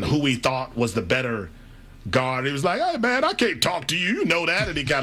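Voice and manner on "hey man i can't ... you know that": lightly voiced Magic Johnson brushing off a reporter; higher, friendly brush-off as Magic; Magic Johnson impression. Reporter retells Magic shooing him away, a light high impression. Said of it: "is that your Magic Johnson impersonation?".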